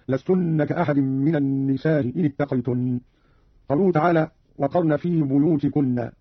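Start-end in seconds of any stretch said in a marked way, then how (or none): 0.1-3.0 النساء with softened hamza, long-a kept short; eased hamza, short. Shown as a demonstration. Teacher shows Qalun's second way, النساء eased without madd. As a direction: keep النساء short and glide over its hamza into إن. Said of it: "بتسهيل الهمزة الأولى مع المد والقصر هكذا".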